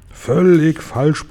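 "Völlig falsch" stretched slowly and pitched high; emphatic, high, slow "Völlig falsch". A narrator's reading. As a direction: stress both words of "Völlig falsch", drawing them out. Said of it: "betonte der Guri".

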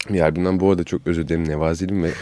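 short of breath while talking; struggling for air between words; wheezy voice. Real, not acted. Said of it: "nefes alamıyorum konuşurken".

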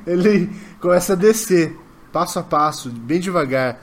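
measured, portentous storytelling with long pauses; game master narration. A narrator's reading. Game master revealing three saints to the players, solemn staged narration. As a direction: unveil each figure piece by piece.

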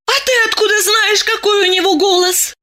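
high, fast surprised question; quick startled ask up high; high girl caught off guard; astonished girl. A narrator's reading. Masha astonished.

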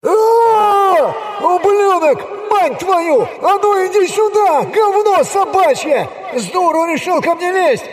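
very high, drawn-out abuse through a megaphone; screaming at full might. A narrator's reading. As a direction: hurl insults as if being butchered alive. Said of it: "что есть мочи заорал, словно его заживо режут". (истошный ор в мегафон, будто режут заживо)

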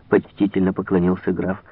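ordinary delivery, nothing marked

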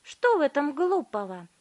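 high, loud retort; defiant girl. A narrator's reading. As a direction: snap back defiantly. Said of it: "упрямо повторила Виолетта".

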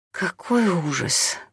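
slow, drawn-out groan of dismay; moaning. A narrator's reading. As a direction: moan it slowly, worn out. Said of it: "простонала Татьяна". (медленно простонать)

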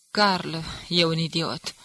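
slow, scornful put-down; contemptuous. Acted. Hermann, calm again, sneers at his boss with slow contempt. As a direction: let the scorn drip slowly off each word. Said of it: "spuse cu dispreț".

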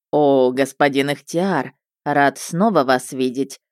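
slow exaggerated politeness; mocking politeness. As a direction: overdo the courtesy to mock him. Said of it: "с такой издевательской вежливостью".

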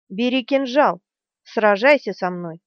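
angry order. Acted. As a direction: bark it as an order. Berdine ordering him to fight.

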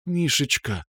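a hint of a girlfriend's tenderness; tender. A narrator's reading. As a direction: murmur his name close to him. Rita tender alone with him.

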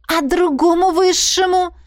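high mocking scoff; smirking. A narrator's reading. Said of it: "хмыкнула я".

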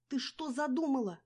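high loud shriek; terrified squeal. A narrator's reading. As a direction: scream in fear. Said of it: "завизжала Динка".

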